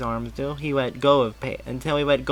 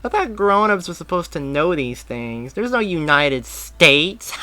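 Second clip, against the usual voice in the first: put-on high, bright kid voice; young boy; 6 semitones higher, 5 dB louder than usual. A narrator's reading. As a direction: play an eager little boy. Boy mocks grown-ups.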